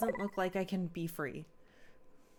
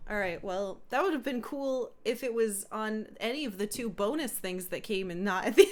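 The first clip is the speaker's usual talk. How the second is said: usual speaking voice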